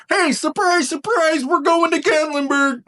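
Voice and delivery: spring the surprise like a game-show host; excited surprise reveal. Pretend.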